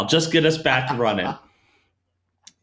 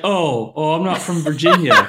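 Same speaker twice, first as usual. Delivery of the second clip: laughing punchline; 5 semitones higher, 6 dB louder than usual. Retold or imitated. Trainee's punchline, laughing through it.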